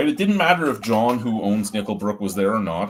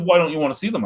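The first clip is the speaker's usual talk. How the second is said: higher mock brewer voice; indignant brewer; 6 semitones higher, 3 dB louder, much faster than usual. Brewer demanding the reviewer look at the emails, higher mock voice. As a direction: push the question like an offended brewer.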